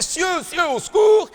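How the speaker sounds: put-on high squeaky child's cry for help; tiny kid crying for help. Gym teacher imitating the trapped pupil, high squeaky cry. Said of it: "qui fait".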